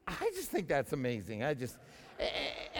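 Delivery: normal talking voice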